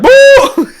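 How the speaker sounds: high, loud sing-song "Boo!"; mock booing. Brothers booing the swearing dad, high and loud. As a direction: boo like outraged children. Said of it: "they freaked out".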